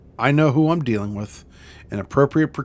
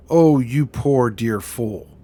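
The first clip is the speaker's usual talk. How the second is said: condescending; 3 dB louder, much slower than usual. Acted. Villain mocks captor.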